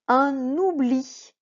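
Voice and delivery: "Un oubli" slow and loud, n linked onto "oubli"; n liaison. Shown as a demonstration. Teacher reads "Un oubli" aloud for the class, slow. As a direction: sound out "un-n-oubli" slowly. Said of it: "C'est le N ici".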